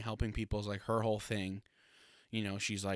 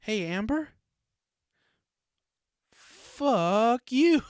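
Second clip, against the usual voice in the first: much higher and louder, mock furious; yelling at Amber; 12 semitones higher, 10 dB louder, much slower than usual. Real, not acted. Reviewer telling off the character Amber, loud mock fury. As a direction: call her out, then spit the curse.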